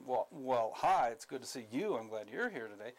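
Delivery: sarcastic. Shown as a demonstration. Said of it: "the sarcasm".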